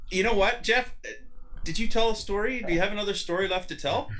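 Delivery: high, excited teasing of Jeff; teasing needle. Retold or imitated. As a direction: needle him with rising glee.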